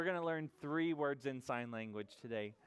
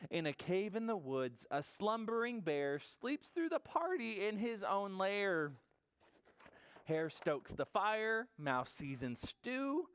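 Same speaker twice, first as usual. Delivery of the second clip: measured read-aloud with lifted pitch; lilting storybook voice; story narration; 7 semitones higher, slower than usual. A narrator's reading. Storyteller setting the cosy cave scene, measured and lilting.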